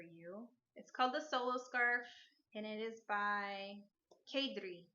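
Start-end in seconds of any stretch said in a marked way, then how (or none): 4.3-4.8 Kadri said with a slight foreign accent; a hint of an accent on Kadri; accented name. Real, not acted. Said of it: "I just said that with an accent".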